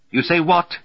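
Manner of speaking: high, loud, incredulous outburst; screaming. A narrator's reading. Roger challenging Volgi, screaming. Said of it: "Roger has been screaming for a while".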